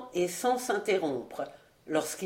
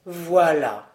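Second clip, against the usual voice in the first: louder, pompous voilà; emphatic; 3 semitones lower, 5 dB louder than usual. Acted. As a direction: declare it as if it settles everything. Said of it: "prononça emphatiquement maître Alain". (voilà prononcé avec emphase)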